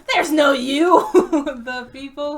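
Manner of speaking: loud, laughing words, slowed. Real, not acted. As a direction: crack up while saying it. Cracking up mid-sentence.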